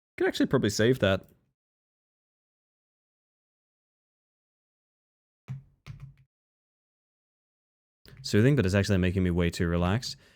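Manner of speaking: tired, weary voice. Commenting on a jump puzzle to chat late at night: tired voice. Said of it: "I've got my tired voice on".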